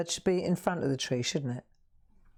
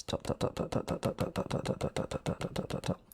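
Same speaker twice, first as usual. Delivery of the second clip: soft unvoiced dot dot dot in rhythm; whispered counting; 6 dB quieter than usual. Real, not acted. Artist whispers along while stippling shadow dots. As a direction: whisper each dot as you tap.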